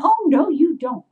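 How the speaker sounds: high, loud indignant retort; angry. Retold or imitated. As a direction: tell off a thief, retold with relish. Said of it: "I was so angry".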